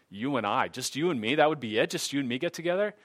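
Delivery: mock incredulous questioning; retold incredulity. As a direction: act out being weirded out by the offer. Retold doubt at one-on-one offer.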